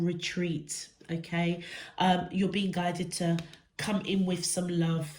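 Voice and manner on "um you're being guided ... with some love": stuffy nose from a cold; blocked nose. Real, not acted. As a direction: talk through a bunged-up nose. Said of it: "Oh, I'm so bunged up".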